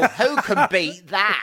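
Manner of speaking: slow laughing question. Real, not acted. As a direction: drawl it out, laughing.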